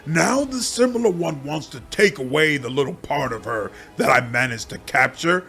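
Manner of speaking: the swarm turning from cold to furious; rising swarm demon anger. Acted. Swarm demon furious at the similar one.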